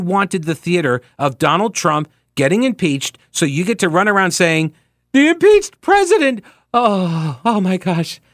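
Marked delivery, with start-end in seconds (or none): 5.1-8.2 mock outrage. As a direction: mimic scandalized pearl-clutching, starting way up high. Mocking those who crow about impeachment.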